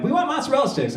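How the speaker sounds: put-on high whiny kid voice; kids demanding. Kids pestering the comedian for snacks, high whiny voice. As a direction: mimic the kids' high demanding whine.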